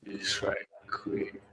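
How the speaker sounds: choppy robotic glitching voice; garbled robot voice over a bad connection. Real, not acted. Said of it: "Uh-oh, you sound like a robot".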